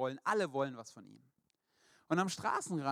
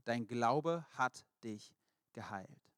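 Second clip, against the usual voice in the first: very slow, weighted, tender; slow, solemn blessing; 4 semitones lower, much slower than usual. Acted. Jesus blessing the healed blind man, slow and tender. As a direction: let each word land gently. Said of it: "sagte Jesus zu ihm".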